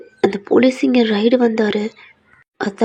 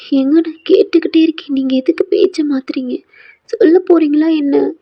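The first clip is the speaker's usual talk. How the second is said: insistent demand; 5 semitones higher than usual. Acted. Wife raising her voice as her husband dodges the question. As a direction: stop dodging and answer me.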